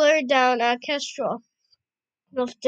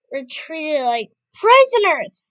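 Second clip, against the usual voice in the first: angry outburst; 2 semitones higher, 7 dB louder than usual. Acted. Stormy bursts in angrily.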